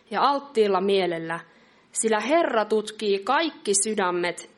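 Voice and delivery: emphatic, measured Bible reading; scripture reading. Acted. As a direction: read the verse out firmly, phrase by phrase with pauses. Reads a Bible verse aloud.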